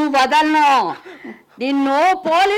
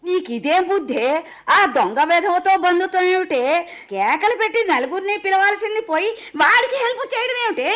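grandmother scolding, moderately raised voice; mild scolding yell. Acted. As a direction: scold the granddaughter without a full shout. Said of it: "అరవకే బామ్మ".

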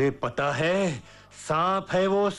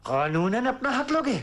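raised-pitch challenge; outraged disbelief; 5 semitones higher than usual. Acted. Father challenging his son's legal claim, outraged. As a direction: throw the threat back, voice climbing.

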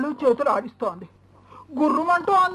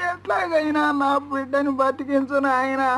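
tearful plea. Acted. Mother begs for her son.

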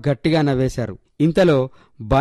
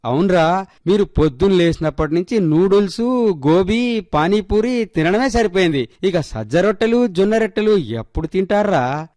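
lightly voiced mum, pitch raised; chiding mother; 5 semitones higher than usual. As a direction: gently tick the children off over their food. (పిల్లలను సున్నితంగా మందలించే అమ్మ)

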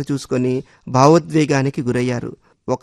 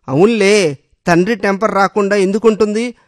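higher, louder bitter jab; resentful anger; 5 semitones higher, 3 dB louder than usual. Acted. Husband bitterly blames her father's temper, raised voice. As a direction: spit out the resentment. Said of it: "అన్నాడు ఆక్రోశంగా".

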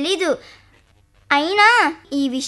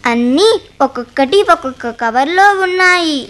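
proud eager listing; 3 semitones lower, 3 dB louder than usual. Acted. Girl proudly lists vegetables.

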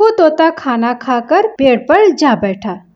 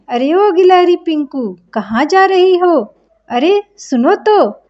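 higher, cheeky call after the squirrel; calling parrot; 6 semitones higher than usual. Acted. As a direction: sing out to her teasingly. (गिलहरी को ऊँची आवाज़ में पुकारता तोता)

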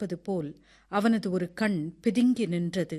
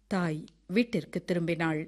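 plain reading voice

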